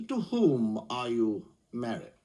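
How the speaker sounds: slow, lightly pompous questioning; pompous counsel. Acted. Counsel pressing a witness in court, slow pomposity. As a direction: draw the question out like a self-important barrister. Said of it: "a rather pompous counsel".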